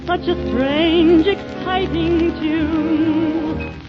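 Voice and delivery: ordinary delivery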